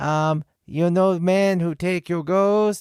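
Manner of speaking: mock Chinese accent, high, slow, broken English, girl's voice.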